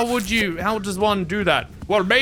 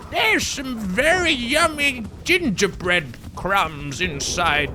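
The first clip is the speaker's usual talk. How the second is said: lightly voiced wicked witch luring kids, slow; 3 dB quieter, slower than usual. Streamer imitating the Hansel and Gretel witch, lightly voiced. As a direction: coax them in like the oven witch. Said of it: "the witch, who's like".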